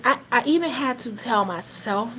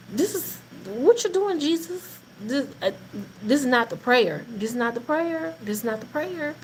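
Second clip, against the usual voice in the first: flustered prayer; 2 semitones higher than usual. Retold or imitated. Wife protests to Jesus about the schedule, flustered. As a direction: sputter at the Lord, thrown off. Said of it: "I was like".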